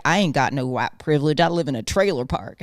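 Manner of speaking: mocking family voice. Mocking his family's denial of white privilege, lightly voiced defensive relative. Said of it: "they're like".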